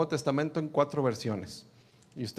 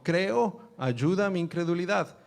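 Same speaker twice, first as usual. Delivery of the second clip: higher, pleading cry; 4 semitones higher than usual. Acted. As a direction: cry out to be helped. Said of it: "clamó y dijo". (el padre clamando a Jesús, en voz más aguda)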